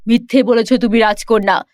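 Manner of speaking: low, hard king's voice with a firm sentence; deep stern royal judgment. Acted. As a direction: pronounce the verdict like a stern father-king. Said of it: "রাজা কঠোর কণ্ঠে বললেন".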